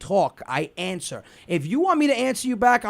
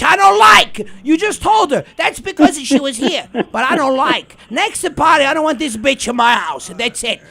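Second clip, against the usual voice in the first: louder mock aunt rant; 3 semitones higher, 5 dB louder than usual. Aunt ranting about the guest, a mock loud rant. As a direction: declare it loud and final. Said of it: "I'm like".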